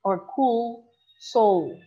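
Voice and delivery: slow, drawn-out demo of the sound; reading the example aloud slowly. Shown as a demonstration. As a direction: let the end sounds ring slowly. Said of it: "For example".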